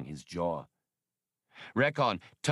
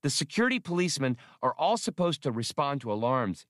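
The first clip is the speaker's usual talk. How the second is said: high, piping computer; Max, elaborating; 7 semitones higher, faster than usual. Acted. Computer probe explains police orders, high-pitched and keen. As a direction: explain keenly in a small machine's voice. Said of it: "The computer probe elaborated".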